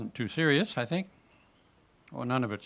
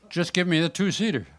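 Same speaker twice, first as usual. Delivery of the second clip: put-on a cocky old salmon, pitched a bit higher and louder; 6 semitones higher, 5 dB louder than usual. Salmon brushing off the kayak attendant, cocky character voice. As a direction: brush off the young attendant, gruff and dismissive. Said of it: "Salmon talk like this".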